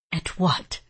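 low voice with a hint of smile. A narrator's reading. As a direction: ask with playful, knowing amusement. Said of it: "hear the smile in his voice".

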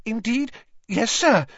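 high, squeaky servile elf; high-pitched obedient elf voice; eager house-elf. A narrator's reading.

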